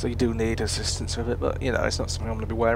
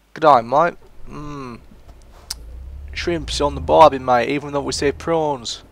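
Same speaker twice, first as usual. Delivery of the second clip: loud, higher mock-Aussie voice; bad Australian accent; 3 semitones higher, 5 dB louder than usual. Joking with an imagined Aussie mate, hammed-up Australian accent. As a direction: put on a clumsy Australian accent. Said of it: "I can't do the Australian accent very well".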